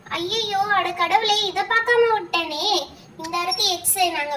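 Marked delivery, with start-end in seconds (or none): 0.1-2.7 slow, drawn-out wail ending in a laugh; mock dismay. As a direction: lament the blunder half-laughing. Realising she missed the move. (மெதுவாக இழுத்து, சிரிப்புடன் புலம்பல்)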